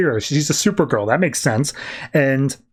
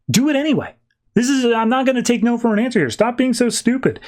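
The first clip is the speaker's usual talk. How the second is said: much higher, fast mock bossiness; bossy Lex; 8 semitones higher than usual. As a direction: order her around, hammed-up. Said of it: "he's like".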